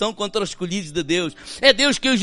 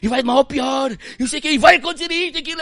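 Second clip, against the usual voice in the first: mocking a whiny doom prophet, climbing higher; 6 semitones higher, faster than usual. Preacher mocks the prophets of doom, whiny and rising. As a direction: parody the gloomy gossip rising in alarm. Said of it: "ouvir os profetas da desgraça".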